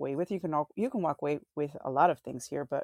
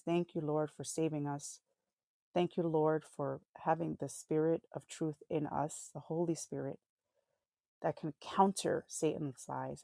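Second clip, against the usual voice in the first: quick prayer. Acted. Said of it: "let me just say a quick prayer to end".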